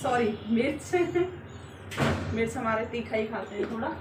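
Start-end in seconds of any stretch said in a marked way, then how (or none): 1.0-2.3 light breathy chuckle; short embarrassed laugh. Real, not acted. Cook laughing at her own mix-up, light chuckle. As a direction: laugh off a small slip.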